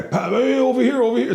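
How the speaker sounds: high, urgent call for the puck; hockey player calling out. Retold or imitated. Fan imitating an overheard player, high urgent calling. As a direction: call out to a teammate on the ice. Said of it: "when you hear the guy".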